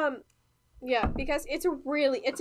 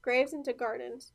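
breathy whisper to herself; 2 semitones lower, 5 dB quieter than usual. Real, not acted. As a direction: whisper the title under breath. Recalling song title, to herself.

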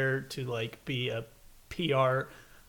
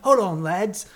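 hammed-up British Hold on, lads; a posh British soldier, higher and louder; British accent; 5 semitones higher, 6 dB louder, slower than usual. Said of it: "he's like".

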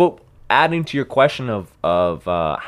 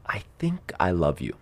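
a shy, breathless confession in a whisper; hushed whisper; 8 semitones lower, 11 dB quieter than usual. Retold or imitated. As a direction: whisper it softly, hesitantly. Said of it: "this is the way she worded it".

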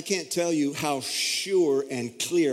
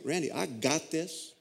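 gentle reassuring God; 4 dB quieter than usual. Retold or imitated. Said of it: "God the Father saying".

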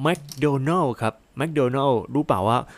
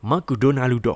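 louder "McDonaldo" as ma-ku-do-na-ru-do; playful Japanized "McDonaldo"; Japanese accent; 2 semitones higher, 5 dB louder, much slower than usual. Shown as a demonstration. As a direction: say "McDonaldo" Japanese style, a vowel after every consonant. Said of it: "อ่านแบบญี่ปุ่น ญี่ปุ่นก็จะเป็น".

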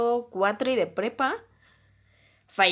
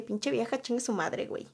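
inner cursing; 7 dB quieter than usual. Retold or imitated. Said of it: "en mi cabeza ya estaba así de".

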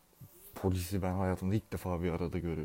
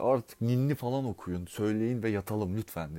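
mildly raised pleading call; retold shout; 2 semitones higher than usual. Someone asking the park crowd for a lullaby, mild retold shout. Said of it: "Biri şey diye bağırdı".

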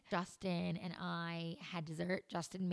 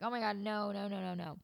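mock panic; 3 semitones higher, 5 dB louder than usual. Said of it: "I'm, like, in panic mode".

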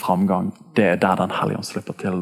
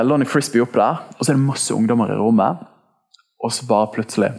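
usual speaking voice

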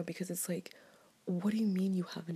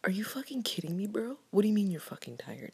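whispered disbelief, pushing harder on the last line; talking back to a tired coworker, mock outrage; exasperated retort; 2 semitones higher, 6 dB louder than usual. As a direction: snap back at a coworker in a hushed voice. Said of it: "I wanna look at and be like".

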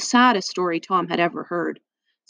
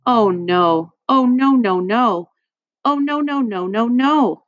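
dismayed; 4 semitones higher, 3 dB louder, slower than usual. A narrator's reading. Tootsie distressed at the news.

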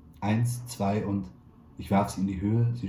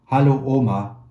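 near-shout, higher and much louder; almost shouting; 5 semitones higher, 11 dB louder than usual. A narrator's reading. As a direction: yell it so grandma can hear over the phone. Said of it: "ich schrie fast". (fast geschrien, höher und viel lauter)

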